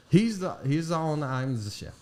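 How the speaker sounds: imitated German chef's accent; German-accented English, lightly put on; mock German accent. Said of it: "opening an authentic German restaurant".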